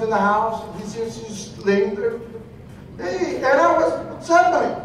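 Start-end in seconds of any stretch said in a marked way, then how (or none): 3.0-4.7 concerned cousin. Retold or imitated. Cousin finds her on floor.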